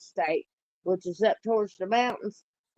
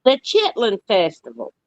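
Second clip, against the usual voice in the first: louder, hearty calling out; loud invitation; 9 dB louder than usual. Real, not acted. Inviting her friend down to South Carolina, loud and hearty. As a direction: boom it out like you're hollering across the yard. Loudly repeating festival name.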